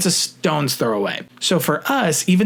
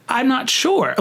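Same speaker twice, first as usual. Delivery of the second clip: higher, flustered reply; panicked; 12 semitones higher, slower than usual. Retold or imitated. On the phone to the caller, panicked and flustered. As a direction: caught off guard and panicking. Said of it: "I just was panicking".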